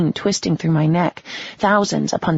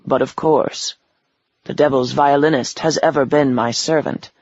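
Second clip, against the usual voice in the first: menacing devil voice. Acted. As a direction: speak like a smug ancient devil. Devil speaks.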